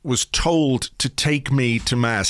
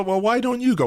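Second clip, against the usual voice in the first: mock cheeky teen; 11 semitones higher than usual. Teen voiced back to parent.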